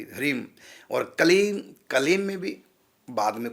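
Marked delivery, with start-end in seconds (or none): 0.0-0.5 ह्रीम ending on a half म; pronounced with closing m. Shown as a demonstration. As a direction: close the lips on the final m of ह्रीम. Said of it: "आधा माँ कहलाएगी".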